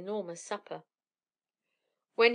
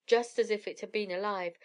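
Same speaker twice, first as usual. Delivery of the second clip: ordinary delivery, nothing marked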